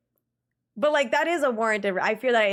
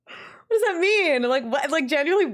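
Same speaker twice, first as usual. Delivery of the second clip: laughing disbelief; 7 semitones higher, 4 dB louder than usual. Real, not acted. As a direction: stretch it out in amused disbelief. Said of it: "funniest messages I've ever read".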